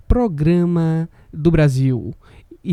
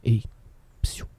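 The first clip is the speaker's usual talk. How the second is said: whispering; 3 semitones lower than usual. Retold or imitated. Voicing street crazy whispering.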